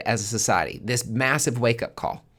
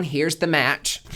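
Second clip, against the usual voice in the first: pitched up, slow, each word laid down; slow deliberate offer; 5 semitones higher, 3 dB louder, slower than usual. Acted. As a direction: hand over the match slowly. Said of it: "The universe is being like".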